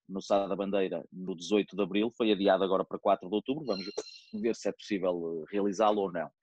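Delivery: hiccuping between words; with hiccups. Real, not acted. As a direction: talk through hiccups. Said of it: "Estou a ter um ataque de soluços".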